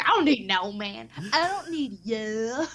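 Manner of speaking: high put-on voice slowing into a mock sob; mock teary defiance; defiant diva. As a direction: ham up the independent woman. Mocking defiant singer.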